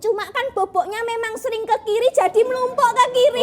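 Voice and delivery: comic co-host character voice. Acted. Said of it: "co-host kita, Tridi".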